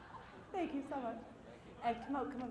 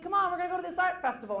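upbeat invite; 8 semitones higher, 5 dB louder, faster than usual. Retold or imitated. Quoting husband's invitation.

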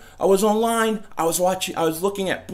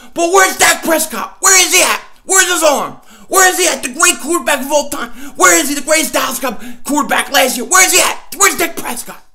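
high, loud repeated calls; hammed-up searching shout; 3 semitones higher, 5 dB louder than usual. Host hunting for Dak, loud mock shouts. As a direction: shout the question into the distance.

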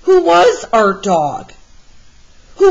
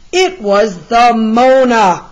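astonished discovery; 3 semitones higher, 4 dB louder than usual. A narrator's reading. Discovering stolen painting.

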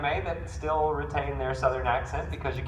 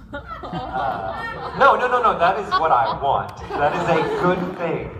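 laughing; 3 semitones higher, 6 dB louder than usual. Real, not acted. Laughing protest that he is unknown.

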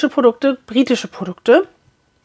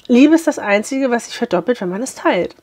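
a touch of wise quote; mock philosophical. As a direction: recite it like a lightly grand saying. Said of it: "wollte ich ganz philosophisch klingen". (leicht feierlich zitiert)

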